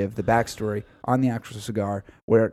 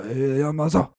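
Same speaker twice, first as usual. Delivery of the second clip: a put-on, higher mock Asian accent; 5 semitones higher, 3 dB louder than usual. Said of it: "the Asian accent, just like I'm doing now".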